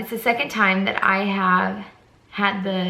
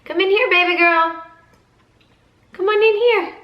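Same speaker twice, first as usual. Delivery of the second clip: raised-pitch parent's call; 10 semitones higher, 4 dB louder than usual. Real, not acted. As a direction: call out high to coax a little one in. Calling the crying little girl over.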